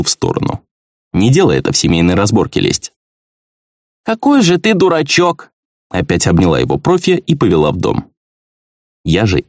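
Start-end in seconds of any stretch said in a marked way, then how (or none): 4.0-5.5 fond scolding. Acted. Wife forgives husband, hugs him.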